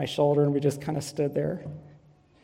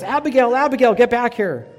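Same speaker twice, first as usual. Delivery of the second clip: put-on loud, high call after a running child; retold yell; 8 semitones higher, 9 dB louder than usual. Father calling his daughter back out the doors, loud high yell. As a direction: shout her name across the hall, higher and louder. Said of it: "Jake starts yelling to her".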